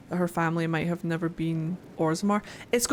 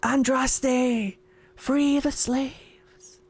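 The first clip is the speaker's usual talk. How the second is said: mock whisper; 3 semitones higher, much slower than usual. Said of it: "He's just whispering into everybody's ear".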